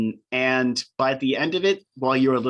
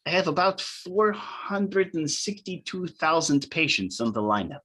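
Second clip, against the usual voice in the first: higher-pitched, pleased surgeon; eager doctor greeting a patient through a smile; smiling doctor; 4 semitones higher than usual. Acted. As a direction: play the delighted doctor, pitched up a little. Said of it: "She says with a huge smile".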